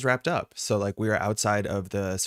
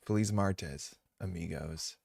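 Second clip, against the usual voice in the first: heavy English accent; 4 semitones lower, 7 dB quieter than usual. Shown as a demonstration. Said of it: "the worst possible heavy English accent".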